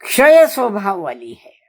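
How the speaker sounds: a hushed secret aside to listeners; whispered. Shown as a demonstration. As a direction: breathe the phrase out with no voice. Whispered repeat after long pause.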